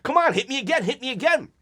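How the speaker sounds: taunting like Stone Cold Steve Austin; Stone Cold trash talk. Retold or imitated. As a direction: strut and taunt like a wrestler. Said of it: "like Stone Cold Steve Austin talking trash".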